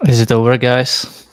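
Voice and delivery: loud breathing into the mic; heavy mouth breathing. Real, not acted. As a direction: breathe heavily through the mouth while talking. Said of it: "you're breathing heavy over there".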